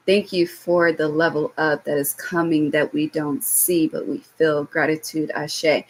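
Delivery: gentle devotional prayer before the reading; spoken prayer. Acted. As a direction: pray it calmly as a blessing. Leads an opening prayer.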